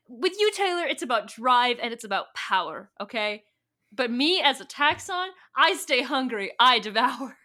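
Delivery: emphatic, pushed villainous declaration; mock-dramatic boast. Taxxon retorting to Taylor about hunger, mock-dramatic and forceful.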